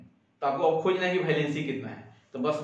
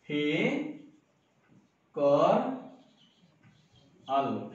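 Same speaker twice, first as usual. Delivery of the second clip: mock crying wail; 4 semitones lower, 4 dB quieter, much slower than usual. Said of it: "जोर जोर से चिल्ला के रोना".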